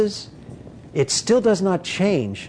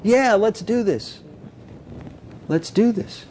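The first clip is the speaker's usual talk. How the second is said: excited disciples; 5 semitones higher than usual. Retold or imitated. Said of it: "they were just so excited".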